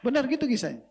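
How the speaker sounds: high laugh through the words. Real, not acted. Preacher tells the congregation the story is true, laughing.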